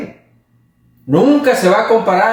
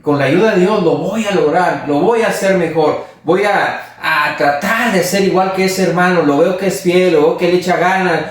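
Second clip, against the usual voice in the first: lightly raised, earnest resolve; mildly determined to do better; a believer resolving to follow a faithful brother's example; resolved, hopeful; 4 semitones higher than usual. Retold or imitated. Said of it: "lo tomamos como ejemplo y decir".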